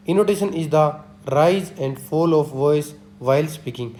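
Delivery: each word spaced out, very slow and deliberate; slow dictation reading. Shown as a demonstration. Teacher reading a definition to students, slow dictation. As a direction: read it out like dictating notes to a class.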